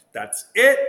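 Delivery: a sharp, loud burst of retold anger; fuming. In the car after the DMV, a loud fed-up outburst. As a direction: snap it out, fed up and done. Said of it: "I was fuming".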